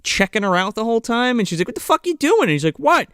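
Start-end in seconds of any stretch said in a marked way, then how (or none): 1.7-2.4 high-pitched mock indignant question; retold indignation. Recapping the woman confronting her watcher, indignant. 2.8-3.1 high-pitched defensive protest; mock innocence. Recapping the creep caught watching, mock innocent.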